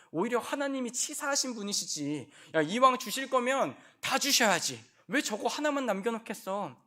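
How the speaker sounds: sly high-pitched mockery; mocking devil. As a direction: sneer at God's rule. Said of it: "이 설교 본문과 같이 얘기를 하면".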